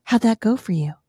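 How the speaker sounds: loud teasing husband's question; lightly voiced husband asking his wife; needling husband. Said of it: "he leans over and he goes".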